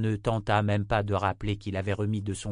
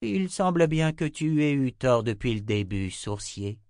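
mocking, scornful raised voice; taunting villain; 4 semitones higher than usual. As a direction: sneer down at the seeker. Voiced antagonist taunting Richard.

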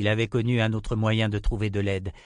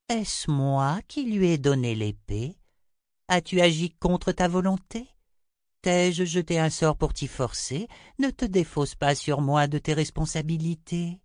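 high-pitched seer rebuking with questions; Chota, reproachful; 7 semitones higher than usual. A narrator's reading. Chota throws the blame back at Richard, high reproachful voice. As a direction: lift the voice high and challenge him.

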